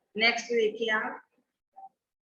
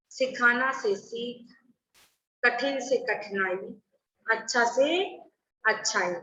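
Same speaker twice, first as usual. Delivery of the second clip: slow dictation; slower than usual. Shown as a demonstration. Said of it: "वैसे देखिए".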